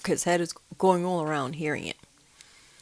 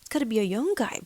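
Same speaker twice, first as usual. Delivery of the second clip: high whisper, rushing in fear; frightened whisper; 7 semitones higher than usual. Retold or imitated. To herself hearing the footsteps, scared whisper. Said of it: "I'm like".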